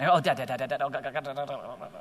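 fading, dropping moan of dad and God; mock exasperated groan.

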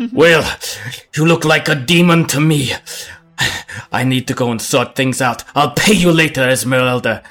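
put-on blustering drunk, pushing past; town drunk. Drunk man shoves past the party.

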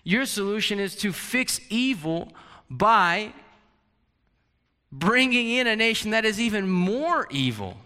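incredulous Habakkuk. Retold or imitated. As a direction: protest in disbelief at God. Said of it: "Habakkuk is totally blown, out of his socks".

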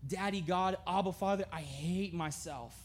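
a touch of broken, hushed prayer; despairing prayer. Pretend. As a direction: quietly pour out hopelessness. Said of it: "run to God and be like".

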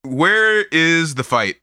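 playful impression of a restless brawler; imitating Guts. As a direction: stretch it out as an impatient fighter, lightly voiced. Acting out Guts, bored, wanting a fight.

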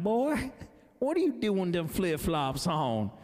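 thick Ozark Missouri drawl, starting high and slowing down; Ozark accent. Retold or imitated. Parking lot boss scolding the city kid, thick Ozark accent. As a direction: imitate a rural Ozark parking boss's accent. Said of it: "he's got this really thick accent from the Ozarks of Missouri".

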